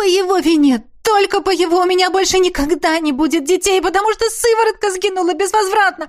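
loud, high shriek of despair. A narrator's reading. Heroine shrieking at the Highlander in despair. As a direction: scream it out at him. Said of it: "я взвизгнула".

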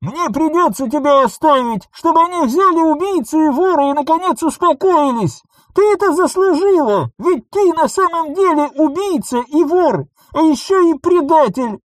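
high, loud, cold fury; brand her a traitor; furious condemnation. A narrator's reading. Clone condemns Nissa. (яростное обвинение)

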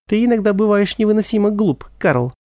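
cold. Acted. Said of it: "холодно произнесла она".

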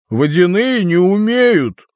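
высокий медленный дракон; протянуть, как дракон; голос дракона. A narrator's reading. Дракон отвечает. (голос дракона)

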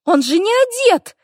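очень высоко и громче; возмущённый испуганный визг; визгливо. A narrator's reading. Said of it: "взвизгнула ведьмочка". (соседка визжит при виде голого эльфа)

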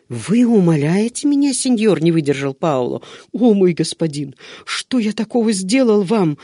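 high, hurt tearful cry. A narrator's reading. Servant hurt that his master begs him, tearful. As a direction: ask what you did wrong, near tears. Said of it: "Бедняга расплакался".

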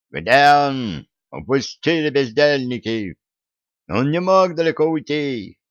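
громкий злой окрик; кричать, ища беглеца; крик. Acted. Крики в библиотеке, погоня. (злой крик)

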